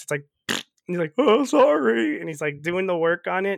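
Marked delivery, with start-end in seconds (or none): 1.2-2.2 higher, louder, slow sheepish oh sorry; mock sheepish apology. Cat apologizing to the kids after farting, hammed-up sheepish. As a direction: ham up an embarrassed sorry.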